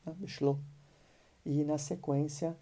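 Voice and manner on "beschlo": "Beschlo" ending on a short O; "Beschlo" said simply, vowel not stretched. Shown as a demonstration. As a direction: keep the final O brief in "Beschlo". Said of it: "o O é uma vogal curta".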